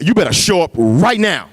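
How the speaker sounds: demanding. Retold or imitated. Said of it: "you demanded of God".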